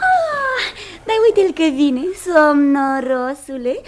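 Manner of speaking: teasing. Acted. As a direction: tease a sleepyhead, stretching the last word. Wife teases sleepy arriving husband. (tachinare drăgăstoasă, tărăgănată)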